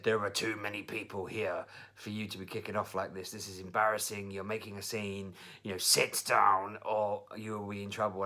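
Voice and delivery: firm, controlled telling-off; firm parent. Retold or imitated. Mother or father warns child kicking off in hairdressers, firm. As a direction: keep calm while laying down the law. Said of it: "I'm really being firm with him".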